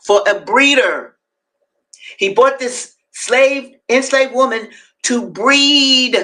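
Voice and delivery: deliberate, emphatic narrative reading; dramatic reading aloud. A narrator's reading. Host reading Frederick Douglass to listeners, emphatic reading. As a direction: read it out, weighting key words.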